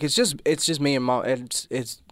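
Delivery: choked up, struggling to speak; fighting back tears; voice breaking. Real, not acted. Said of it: "let me compose myself".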